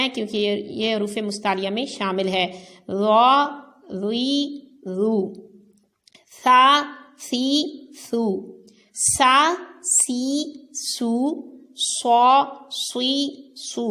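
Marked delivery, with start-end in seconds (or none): 2.9-5.2 را and رو heavy, ری thin; teacher drilling را ری رو. Shown as a demonstration. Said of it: "را نرمی سے بھی پڑھنا ہے اور پر". 6.4-13.9 سا سی سو thin, then صا صی صو heavy; thin سین set against heavy صاد; teacher contrasting سین and صاد syllables; sin and sad drill. Shown as a demonstration. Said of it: "سین کو باریک پڑھیں اور صاد کو پر".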